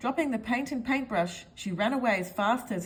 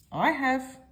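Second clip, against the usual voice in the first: higher, eager chirp; small man pipes up, higher and eager; piped up; 5 semitones higher than usual. A narrator's reading. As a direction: pipe up brightly. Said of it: "piped up Mister Small".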